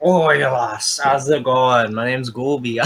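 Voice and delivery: attempted Scottish character voice; Gooby. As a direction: have a rough go at a Scottish bear. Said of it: "Talk like Gooby".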